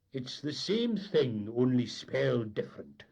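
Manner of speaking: deadpan mate. Acted. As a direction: shrug it off. Mate's retort.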